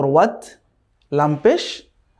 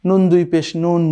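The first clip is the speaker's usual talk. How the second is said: slow spelling; slower than usual. Shown as a demonstration. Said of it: "তাহলে কি হলো?".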